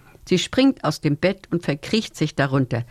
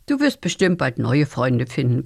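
reassuring; 5 semitones lower than usual. Acted. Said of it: "versichert Lunabella".

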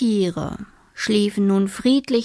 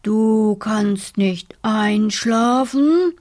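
grumbling bear; slower than usual. Acted. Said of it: "brummte der Bär".

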